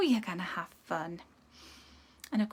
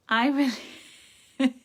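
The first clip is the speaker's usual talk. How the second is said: laughing; 3 semitones higher, 6 dB louder, much faster than usual. Real, not acted. Reader amused at a viewer's comment, laughing. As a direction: break off into a real laugh. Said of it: "I'm just laughing at".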